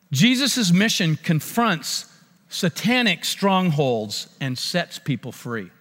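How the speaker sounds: very slow, weighty proclamation; preacher stating a heading with gravity; solemn sermon point. Acted. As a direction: lay out the point word by word.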